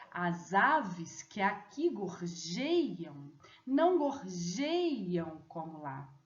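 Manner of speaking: slow, with syllables fused as in sung verse; poetic scansion reading. Shown as a demonstration. Teacher reading the poem with poetic fusions. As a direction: scan the lines with sounds joined. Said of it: "qual seria a estrofe mais fidedigna".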